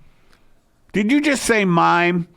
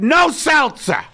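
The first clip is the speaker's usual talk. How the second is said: imitating Hitler; 11 semitones higher, 5 dB louder than usual. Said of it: "he purposely said".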